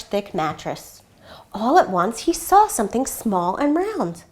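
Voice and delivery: gentle read-aloud storytelling voice; story narration. A narrator's reading. Reads picture book aloud.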